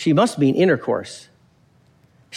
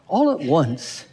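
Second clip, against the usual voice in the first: slow, stretched-out repeat for effect; drawn-out echo; slower than usual. Shown as a demonstration. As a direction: linger on each word of the phrase. Repeats verse phrase in mock wonder.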